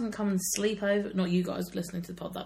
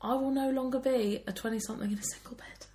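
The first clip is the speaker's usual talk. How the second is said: big announcement; 6 semitones higher than usual. Pretend. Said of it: "this is a big announcement".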